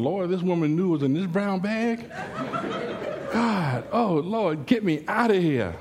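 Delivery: hammed-up plea to be rescued; mock panicked prayer. Trapped preacher begging the Lord for escape, mock panic.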